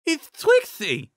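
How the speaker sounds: high, slow, muffled cry, mouth stuffed full of cape; through a mouthful of cape. A narrator's reading. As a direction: Cheerilee blurts it out with cloth in her mouth, garbled exclamation. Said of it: "exclaimed suddenly, though she still had a mouthful of cape".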